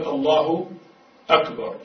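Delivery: الله, then أكبر with a clear glottal stop; correct takbir. Shown as a demonstration. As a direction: separate "Allahu" from "akbar". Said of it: "الصحيح هو الأول".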